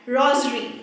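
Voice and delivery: rosary said with a Z for the S; Z sound in rosary. Shown as a demonstration. Teacher showing viewers the word, Z sound in rosary. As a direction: say "rosary" with a buzzed Z. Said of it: "in pronunciation, we say like that".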